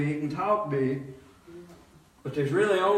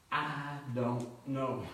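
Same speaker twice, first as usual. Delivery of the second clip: soft, slow, lower; sheepish mumble; 7 semitones lower, 12 dB quieter, slower than usual. Retold or imitated. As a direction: mumble it like you're caught out. His sheepish answer to the clerk.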